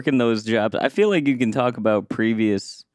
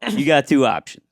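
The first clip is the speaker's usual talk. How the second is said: mock threatening tone. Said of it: "like, a threatening tone".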